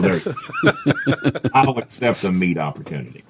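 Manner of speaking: laughing through the repeated phrase; laughing quote. Retold or imitated. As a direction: chuckle out the retold words.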